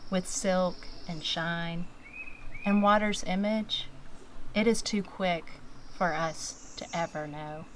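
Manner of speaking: measured poem reading with pauses between phrases; poetry reading. Acted. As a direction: read it as verse, line by line. Reads her own poem aloud.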